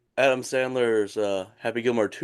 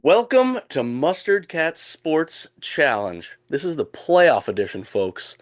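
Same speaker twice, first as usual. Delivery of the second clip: nasally phlegmy voice; 3 dB louder than usual. Real, not acted. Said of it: "deal with my nasally, phlegmy voice".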